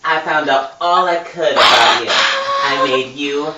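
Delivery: a hammed-up camp villain bragging; campy villain voice. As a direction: boast it, stretching the last line slowly. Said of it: "turn on my super fag voice for Steve".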